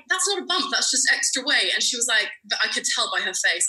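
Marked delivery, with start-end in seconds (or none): 0.1-1.7 high protest. Retold or imitated. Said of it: "So I was like".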